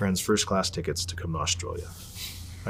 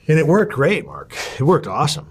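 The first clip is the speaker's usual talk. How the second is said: excited; 6 semitones higher, 6 dB louder than usual. Real, not acted. Excited payoff told to Mark.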